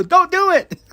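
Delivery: very high, loud heckle; imitated fan yell. Somebody in the crowd pleading with the wrestler, mock yell. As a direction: yelp it out like a fan, half laughing. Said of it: "somebody in the crowd yells at Claudio".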